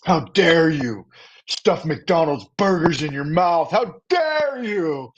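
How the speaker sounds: slow, high, overdone indignant whine; mocking critics who shame him for eating McDonald's, high and slow; mock outrage. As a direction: ham up the offended critics scolding him. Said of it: "They're like".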